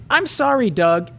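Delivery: a hint of Patty, sweet but final; Patty letting him down. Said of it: "was all he got for his troubles".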